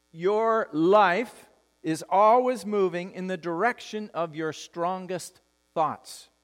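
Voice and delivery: deliberate pacing, pausing before the final word; slow, weighty statement. Real, not acted. Pastor giving the congregation a key truth, slow and emphatic. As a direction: spell out the key truth slowly, phrase by phrase.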